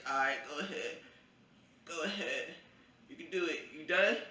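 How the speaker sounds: high, tense self-encouragement; bracing for the needle, voice up high; nervous pep talk. Retold or imitated. Nervous while getting pricked.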